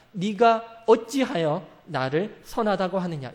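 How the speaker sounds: slow, stern rebuke; slow reproachful question; rebuking. Acted. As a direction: draw it out like a reproach. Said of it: "책망하듯 대답하십니다".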